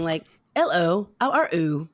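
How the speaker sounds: mock Cockney with dropped H's; bad Cockney accent. Imitating an actor practising for My Fair Lady, bad Cockney. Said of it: "he's working on his Cockney accent".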